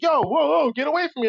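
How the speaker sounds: high, alarmed brush-off from a wary New Yorker; a stranger backing away, voice jumping up high; mock-alarmed shooing off; startled stranger. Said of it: "he's like".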